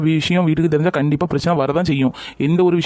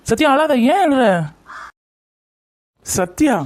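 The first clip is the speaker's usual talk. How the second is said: higher-pitched, worried soothing; concerned consoling; 4 semitones higher, slower than usual. Acted. Boyfriend telling crying Sathya not to cry, concerned consoling. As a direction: urge them to stop crying, voice lifting in concern.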